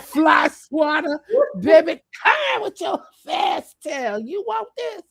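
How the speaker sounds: mock grandma scolding shout; grandmother scolding. Imitating a grandmother scolding a fast child, loud. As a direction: call the child like an old grandmother. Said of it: "that sound like my grandmother".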